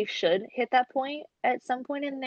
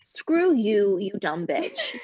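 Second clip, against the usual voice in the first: laughing insult; much slower than usual. Retold or imitated. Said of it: "in the back of my head".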